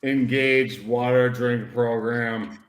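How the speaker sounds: slow mock-robot voice; unhurried robotic command readout. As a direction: read it out like a machine carrying out commands. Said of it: "he's just a robot underneath".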